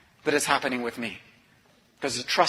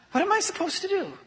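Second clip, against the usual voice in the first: despairing. Real, not acted. Hopeless, planning to leave.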